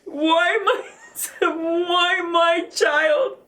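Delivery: tearful, rising cries of why; sobbing out the question why; crying why. Real, not acted. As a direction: grief breaking through the words. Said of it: "fell to the ground and screamed".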